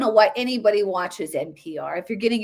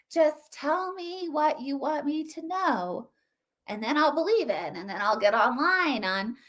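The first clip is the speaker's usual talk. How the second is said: softer, sarcastic sheep-like voice; a touch of mock meek; 3 dB quieter than usual. Commentator mocks listeners who believe what they're told, meek. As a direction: say it meekly as a mindless follower.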